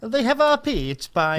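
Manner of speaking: drawn-out mock Italian accent; joking Italian accent. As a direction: slowly play at being Italian. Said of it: "in an Italian accent".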